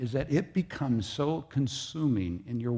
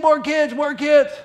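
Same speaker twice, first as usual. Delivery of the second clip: longing cry; 8 dB louder, slower than usual. Acted. Preacher voicing Sarai's longing.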